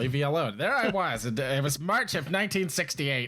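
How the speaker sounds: Boston dad rambling, laughing; grumpy Boston dad, half laughing; Boston accent. Retold or imitated. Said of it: "do the Boston voice".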